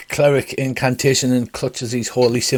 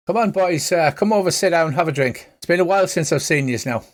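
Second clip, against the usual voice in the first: light Irish lilt, pitched up; Colin Farrell Irish accent; 5 semitones higher than usual. Acted. GM voices the Irish priest Father Dougal greeting the party, light Irish accent. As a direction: offend everybody with a lightly put-on Irish accent. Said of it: "my pretend Colin Farrell accent".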